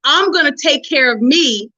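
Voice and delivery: mildly sarcastic jab, barely changed from her own voice; a light, frustrated dig wrapped in sweetness. Retold or imitated. Wife teasing her husband about his self-care, lightly sarcastic. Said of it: "I was being sarcastic because I was frustrated".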